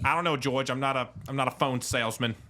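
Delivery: exasperated Jersey impression; Northeastern accent. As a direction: protest to George in a put-on Jersey accent. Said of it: "That's not how she speaks".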